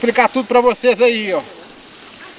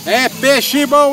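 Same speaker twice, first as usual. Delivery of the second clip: slow drawn-out; 3 semitones higher, much slower than usual. Real, not acted. Catchphrase, slow take.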